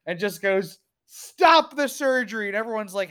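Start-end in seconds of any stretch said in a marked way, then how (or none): 1.1-2.5 mock shout. House bursting into surgery.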